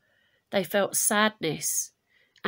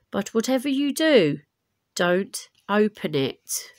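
messenger warning; 4 dB louder than usual. Acted. Messenger warns.

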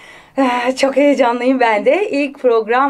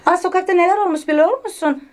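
put-on eager gossiping girl; 6 semitones higher than usual. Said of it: "annesine havadis götürüyordu".

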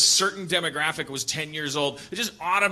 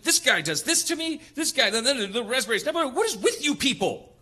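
mock grievance; 7 semitones higher than usual. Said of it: "I just kept saying".

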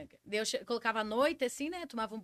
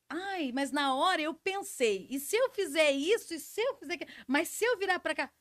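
mocking overthinkers; 5 semitones higher than usual. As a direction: parody someone who thinks they had time to plan. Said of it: "E as pessoas assim".

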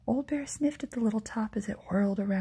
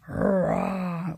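short louder growl; bear growl; 2 semitones lower, 4 dB louder than usual. Acted. Old Bear demands jam, short growl. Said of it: "Old Bear growled".

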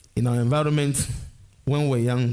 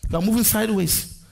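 raised pitch on the key words; emphatic preaching; 6 semitones higher than usual. Real, not acted. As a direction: preach each definition, stretching the weighty words. Preaches at full force.

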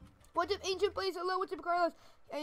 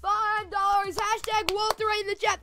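long, high, loud "oh"; excited shout; 5 semitones higher, 6 dB louder, slower than usual. Real, not acted. Streamer gets a five dollar donation, excited shout. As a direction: cry out in delight, loud and raised.

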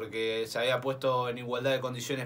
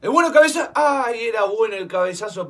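surprised; 6 semitones higher, 7 dB louder than usual. Real, not acted. Near miss header.

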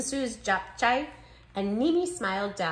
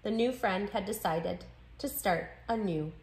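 expressive picture-book read-aloud; story narration. A narrator's reading. Narrator telling children how new friends share foods, story narration. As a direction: read with lively, clear phrasing for children.

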